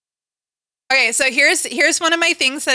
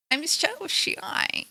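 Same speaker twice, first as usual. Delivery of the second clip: slow, soft, bashful little voice; shy; 5 semitones higher, 9 dB quieter, much slower than usual. Pretend. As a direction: say it timidly, hiding. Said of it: "it's so shy right now".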